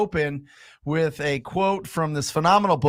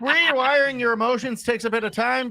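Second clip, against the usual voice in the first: higher, lilting Scottish-Irish brogue; mock Scottish accent; 4 semitones higher than usual. Host rereads the quote on request, mock Scottish accent. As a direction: read it like a Scottish leprechaun. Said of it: "read it in a Scottish accent".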